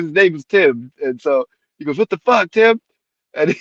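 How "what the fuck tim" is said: higher, indignant cop outburst; imitated exasperation. Cop confronting Tim by the car, imitated exasperation. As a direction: act out a fed-up cop. Repeat of the cop's angry question.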